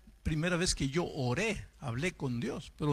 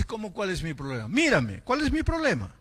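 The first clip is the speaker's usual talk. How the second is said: voiced outrage, louder on the last question; indignant challenge; 3 semitones higher, 4 dB louder than usual. Bedridden young man challenges the visiting pastor, indignant. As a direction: imitate an offended young man, rising louder.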